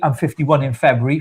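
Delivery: ordinary talk, nothing marked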